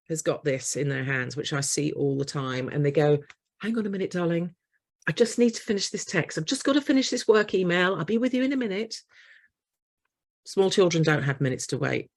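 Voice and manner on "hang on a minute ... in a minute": put-on busy parent brushing off child.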